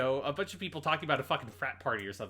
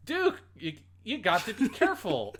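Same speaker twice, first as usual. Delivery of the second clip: mild scolding; 5 semitones higher than usual. Retold or imitated. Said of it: "It's like".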